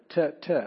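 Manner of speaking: Te said twice, short and separate; stuttered syllable. Shown as a demonstration. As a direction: repeat Te like a stutter. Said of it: "it looks like it stuttered".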